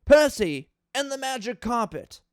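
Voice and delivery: mock-earnest read of a ranting fan review; a dramatic reading of someone else's angry episode review. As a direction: perform it straight-faced, like an outraged reviewer. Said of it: "A dramatic reading of a top ten worst Thomas".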